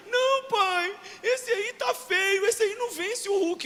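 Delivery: put-on high, slow child's voice, disappointed; small boy. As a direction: pout like a four-year-old. Four-year-old son objects.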